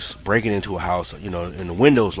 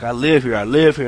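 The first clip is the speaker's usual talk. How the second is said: mild yell, higher and louder; retold yelling; 4 semitones higher, 4 dB louder than usual. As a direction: call out insisting this is your home. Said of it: "I kept yelling".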